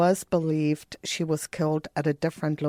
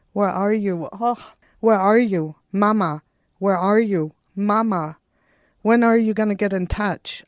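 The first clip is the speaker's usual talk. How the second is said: raised, louder, imploring mother; desperate pleading; 5 semitones higher, 6 dB louder than usual. Retold or imitated. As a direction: beg her daughter to answer, voice lifted high.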